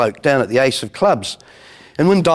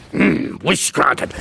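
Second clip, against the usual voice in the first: genie voice; much slower than usual. Retold or imitated. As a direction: grant it with a slow hum.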